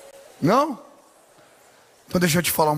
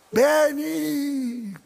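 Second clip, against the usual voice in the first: put-on high call to the boy at the door; 8 semitones higher than usual. Parent calling son to the door, high and carrying. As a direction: call the name out across the house.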